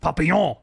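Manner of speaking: "Papillon" punched out loudly; loud, harsh "Papillon"; harsh French demo. Shown as a demonstration. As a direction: bark "Papillon" to make French sound harsh. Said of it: "if I say".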